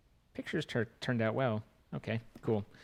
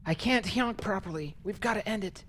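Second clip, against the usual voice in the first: mock squeaky streamer; 10 semitones higher than usual. Mocking streamer losing voice.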